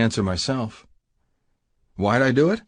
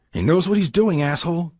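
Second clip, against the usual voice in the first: a lightly voiced biker warning, pitched higher; silent rebuke; 8 semitones higher than usual. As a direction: hiss back off at a hothead brother. Asphalt's look voiced.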